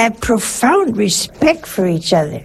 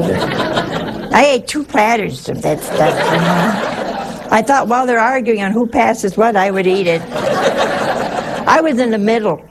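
laughing while telling. Real, not acted. Retelling eating through argument.

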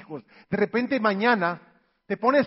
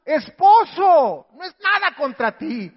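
mock wife yell; 6 semitones higher, 9 dB louder, slower than usual. Wife voiced yelling.

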